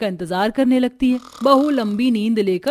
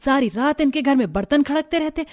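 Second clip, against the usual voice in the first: complaining neighbour woman; 4 semitones higher than usual. Acted. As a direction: pile on like a nosy neighbour. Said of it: "शिकायत करना चालू कर देते हैं".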